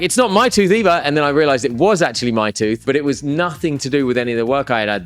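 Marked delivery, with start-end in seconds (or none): 0.0-1.0 retold panic. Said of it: "she started panicking".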